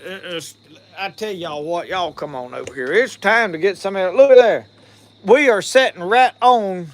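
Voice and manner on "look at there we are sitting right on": excited. Real, not acted. Showing off the smoked meat.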